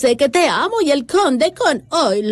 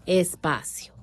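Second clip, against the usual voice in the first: slow spelling dictation; 2 semitones lower than usual. Shown as a demonstration. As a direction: dictate each piece slowly, pausing on every espacio. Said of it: "Explícalo". (dictado lento, marcando cada espacio)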